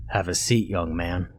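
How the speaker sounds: low gruff order, barely an invitation. Acted. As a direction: growl it as a command. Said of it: "his gruff voice making it sound more like an order".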